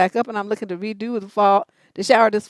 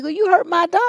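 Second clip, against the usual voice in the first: higher, whiny mock outrage; mock offended whine; 7 semitones higher than usual. Woman mocked after dog was kicked, higher whine. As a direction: parrot her hurt complaint, hammed up. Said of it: "She's like".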